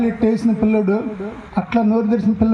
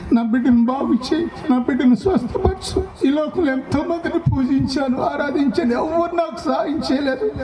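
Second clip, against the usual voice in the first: retold tearful prayer; 3 semitones higher than usual. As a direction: beg Jesus to heal the child. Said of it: "అని ఏడ్చి". (ఏడుస్తూ ప్రార్థన)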